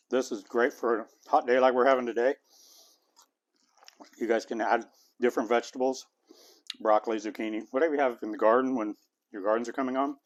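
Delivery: talking through a mouthful of food; mouth full. Real, not acted. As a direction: speak around a bite you're still chewing. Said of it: "talking with my mouth full".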